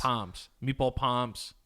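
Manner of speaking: palms for parms, no r at all. Retold or imitated. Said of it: "calls chicken parms chicken palms".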